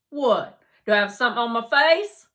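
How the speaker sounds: loud, quick startled asking; surprised question. Acted. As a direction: blurt it out puzzled. Harlan surprised, mouth full.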